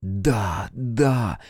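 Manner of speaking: understated rapture, lightly voiced; passionate murmur. A narrator's reading. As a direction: murmur it as if lost in desire. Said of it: "не помня себя от вожделения, прошептала Катерина". (страстно, вполголоса)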